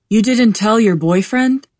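a gentle reproach, only a touch let down; gentle though disappointed. A narrator's reading. Doctor questions patient about boyfriend, gently disappointed. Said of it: "voice is gentle, though disappointed".

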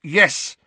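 "Yes" hit loud and high; emphatic. A narrator's reading. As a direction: punch out "Yes" firmly. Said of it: "said Harry emphatically".

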